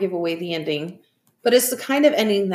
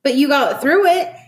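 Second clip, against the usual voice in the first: higher, louder upbeat reassurance; cheerful, raised-pitch praise; beaming encouragement; 7 semitones higher, 6 dB louder than usual. A narrator's reading. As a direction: say it through a big smile. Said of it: "smiling ear to ear".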